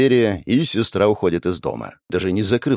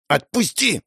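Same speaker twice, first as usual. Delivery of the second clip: put-on higher girl's voice demanding release; struggling girl; 8 semitones higher than usual. Girl still struggling demands he let go, higher voice. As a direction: repeat the demand while jerking away. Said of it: "Она продолжала дёргаться".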